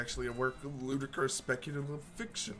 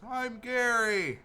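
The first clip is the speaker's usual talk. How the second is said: a much higher, louder, slow goblin yell; goblin shout; 12 semitones higher, 9 dB louder, much slower than usual. Acted. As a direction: bellow your own name like an eager little goblin. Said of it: "Goblin shouts".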